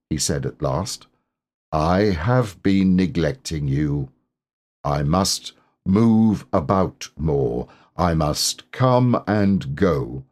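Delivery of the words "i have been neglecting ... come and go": slow, gloomy donkey voice; mournful donkey, slow; Eeyore. Acted. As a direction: let each word drag, a glum old donkey.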